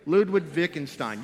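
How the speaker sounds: rally the room to chant "Ludwig Wittgenstein"; call and response. Shown as a demonstration. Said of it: "Say it with me".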